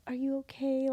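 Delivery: soft, gentle check-in; imitating a mother's quiet worry; tender concern. Mom checking up on upset daughter, tender concern.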